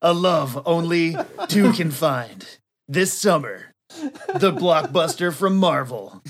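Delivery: mock trailer voice, spaced-out phrases; movie trailer announcer. Narrator sells Marvel's summer blockbuster, mock trailer announcer.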